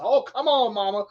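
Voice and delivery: a high, eager call that falls back; excited cry. Retold or imitated. Fisherman urging the fish on the line, a high excited call. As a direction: egg the fish on with a high yelp.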